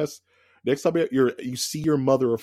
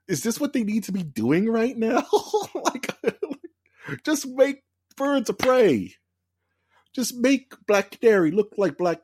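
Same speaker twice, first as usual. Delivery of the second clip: laughing rant; 11 semitones higher, 4 dB louder than usual. Real, not acted.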